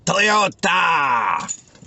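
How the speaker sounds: loud, high cheer. Real, not acted. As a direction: call out with a cheer. Cheering his van name.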